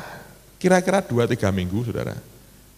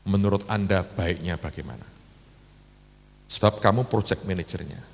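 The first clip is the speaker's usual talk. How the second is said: low, softened private aside; quiet and low, not quite whispered; confiding murmur; 8 semitones lower, 7 dB quieter than usual. Retold or imitated. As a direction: lightly imitate a hushed word to a colleague. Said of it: "saya bisikin".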